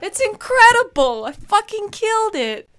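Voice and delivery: loud, high-pitched bragging; excited, high self-congratulation; triumphant boast. Real, not acted. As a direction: crow about your victory at the top of your range. Boasting about only two cavities.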